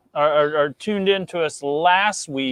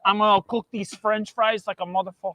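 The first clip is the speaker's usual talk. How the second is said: put-on Mexican accent; 3 semitones higher than usual. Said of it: "Your Mexican accent".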